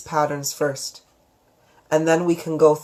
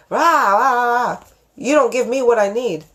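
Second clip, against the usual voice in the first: loud, high, scolding rah rah at her partner; angry rant; 7 semitones higher, 4 dB louder than usual. Retold or imitated. Wife berating her tired husband, imitated as a loud angry outburst. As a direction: let it fly like a nagging blow-up. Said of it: "instead of me going to Lip Up and going".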